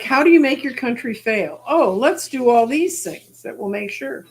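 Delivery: lively, sing-song mock brainstorming; sarcastic mock planning. Sarcastically voicing those wrecking a country.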